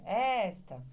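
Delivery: "Esta" called out with a lengthened ES; calling the word. Acted. Pupil calls the word to find stress, drawing out ES. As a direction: draw out the ES of "Esta". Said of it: "Aí a pessoa faz, chama, né?".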